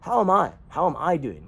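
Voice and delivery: high pointed comeback; exasperated mock reply; indignant retort. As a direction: throw the question back at them. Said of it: "And I was like".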